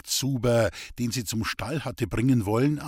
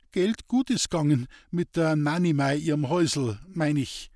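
stammering; 3 semitones higher than usual. Acted. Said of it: "er brach wieder ab und stammelte".

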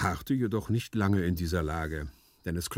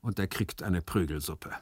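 placid servant lightly voiced; composed, sententious explaining; calm philosophising. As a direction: carry on sermonising, unruffled. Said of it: "sprach ruhig weiter".

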